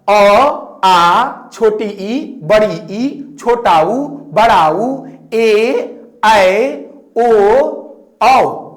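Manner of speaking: each vowel said separately and clearly; reading out vowels. Shown as a demonstration. Teacher reading vowels off the board, one by one. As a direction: recite the vowel list for the class. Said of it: "यहां पर क्या लिखा है?".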